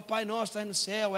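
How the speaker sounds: put-on father leading children in prayer, line by line; lightly acted prayer leader. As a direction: say it out firmly for the kids to repeat. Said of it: "Eu falo, ... elas repetem".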